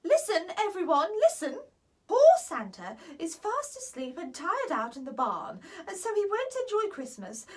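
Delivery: loud fairy queen calling for attention; calling the room. Acted. Queen Ivy calling the fairies and elves to listen, loud. Ivy bangs table, calls out.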